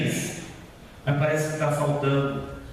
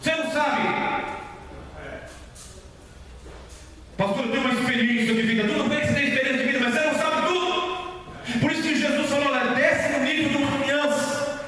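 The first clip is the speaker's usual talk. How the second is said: high-pitched, driving sermon delivery; impassioned preaching; 7 semitones higher, faster than usual. Real, not acted. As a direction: preach it insistently, piling up each reason. Prega com veemência à igreja. (pregação veemente)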